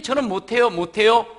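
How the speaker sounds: loud protesting "저는 못해요"; whiny excuse. Acted. Believer refusing God's call, loud whiny excuse. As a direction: plead you can't, pushing back loudly. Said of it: "하는 거예요".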